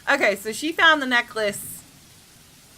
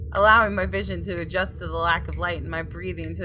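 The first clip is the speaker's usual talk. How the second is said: story narration. A narrator's reading. Reads game text aloud.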